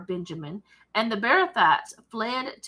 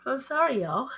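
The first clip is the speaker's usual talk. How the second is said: talking through a yawn; words stretched by a yawn; 4 semitones higher than usual. Real, not acted. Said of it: "I try not to yawn when I'm filming".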